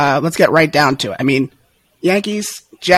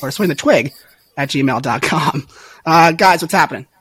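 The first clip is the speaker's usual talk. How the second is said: hoarse voice. Real, not acted. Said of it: "I have lost my voice".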